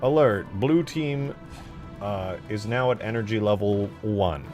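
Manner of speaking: lightly voiced game announcer, slow and measured; Dot's announcer callout. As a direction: slowly announce it like an in-game alert. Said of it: "and she'll go".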